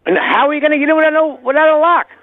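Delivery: angry. Real, not acted. Angry resident on prank call.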